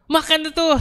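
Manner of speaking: high, teary mock voice of the brother; crying brother. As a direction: voice him half-crying and bewildered. Brother crying, asking what's happening. (umiiyak na kuya, mataas na boses)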